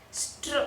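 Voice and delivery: Str said alone as one drawn-out blend; blended sound. Shown as a demonstration. Teacher showing a consonant blend, blended sound. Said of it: "this is a blend".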